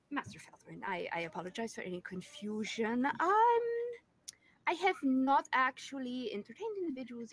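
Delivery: lightly voiced demure lady; a hint of a flustered lady. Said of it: "a demure lady i-, is somewhat flustered".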